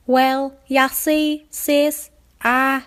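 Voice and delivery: high, slow, guilty filly. Acted. Apple Bloom hedging to her sister, guilty. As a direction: stammer out an excuse.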